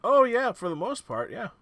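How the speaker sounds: hint of an obliging old-timer; elderly townsman Darren. Darren answers about his teeth, lightly voiced old man.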